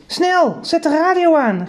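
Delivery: father urgently calling for the radio. Acted. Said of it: "riep mijn vader".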